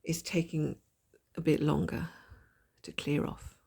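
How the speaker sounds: husky, gravelly voice from a blocked nose. Real, not acted. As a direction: talk through a gravelly throat. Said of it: "you know, gravelly voice".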